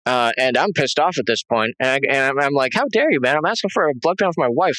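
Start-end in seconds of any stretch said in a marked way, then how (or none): 2.7-4.8 higher, indignant demand. Retold or imitated. Husband snapping at the doctor over the blood test, higher and indignant. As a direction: call him out, offended.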